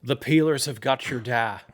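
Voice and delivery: put-on Belfast cop show accent; Northern Irish accent. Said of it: "probably a better Northern Irish accent than I can do".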